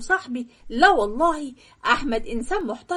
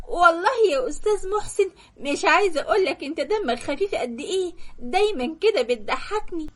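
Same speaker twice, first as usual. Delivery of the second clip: laughing flirtatiously; 5 semitones higher than usual. Retold or imitated. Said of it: "وليه بتضحك بالطريقة دي؟".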